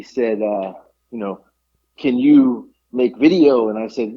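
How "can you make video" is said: broken English imitation. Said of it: "you're speaking broken English".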